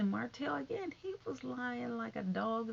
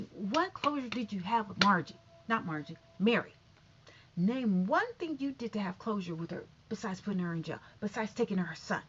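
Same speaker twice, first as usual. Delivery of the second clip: louder ranting tirade; mock yell at Steve; 4 dB louder than usual. Vlogger rants at Steve Harvey for hypocrisy, loud tirade. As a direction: rant at him like he's in the room. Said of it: "And I'm just like, "Yelling".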